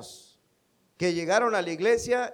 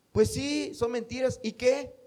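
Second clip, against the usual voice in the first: shrugging colleague; 7 semitones higher than usual. Retold or imitated.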